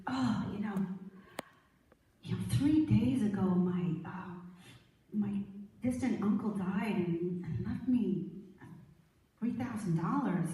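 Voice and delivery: downcast, hesitant storyteller's character; sad and distraught. Acted. Downcast man telling an old friend of his uncle's death, mildly distraught. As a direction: tell it haltingly, mildly glum. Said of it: "sad and distraught".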